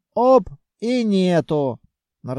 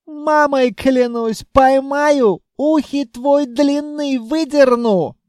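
put-on high, loud Caucasian accent taunt; 9 semitones higher, 6 dB louder, slower than usual. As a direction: yell across in a Caucasian accent. Jinn threatens in accent.

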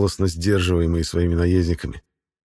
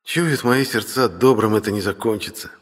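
sighing; 4 semitones higher than usual. Acted. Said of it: "вздыхает юноша".

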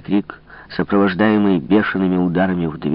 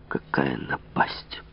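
медленный беззвучный шёпот; прошепчи в ужасе, растягивая; испуганный шёпот; 4 semitones lower, 9 dB quieter, much slower than usual. Acted. Фуке в ужасе сам с собой. (медленный испуганный шёпот)

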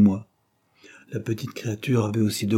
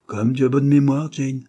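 louder, pitched-up delighted cry; exclaiming; 5 semitones higher, 4 dB louder than usual. Acted. Marguerite to her sister Jane, delighted exclamation. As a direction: burst out happily. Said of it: "ne put s'empêcher de s'écrier".

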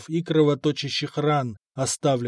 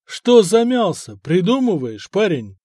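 pressing; 4 semitones higher, 6 dB louder than usual. Acted. Interrogator presses the prisoner.

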